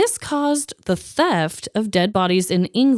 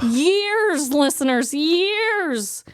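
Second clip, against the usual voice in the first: dramatic lament; 5 semitones higher, much slower than usual. Acted. Dramatic emphasis on years.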